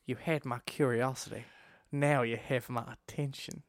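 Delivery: poor attempt at a country accent; lightly put-on country accent. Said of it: "I can hear it in a country accent".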